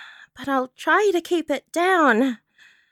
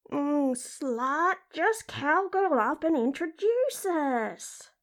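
slow, goading inner voice; sassy, lewd character voice; brazen talking-vagina character; 3 dB quieter, slower than usual. Acted. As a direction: egg her on in a crude drawl. Crude talking body part.

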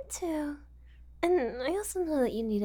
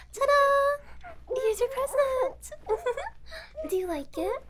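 high, loud ta-da, then slower; gleeful reveal; 9 semitones higher, 4 dB louder, slower than usual. Acted. Kidnapper unveils her captive as a gift, gleeful. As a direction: present it like a magician's big finish.

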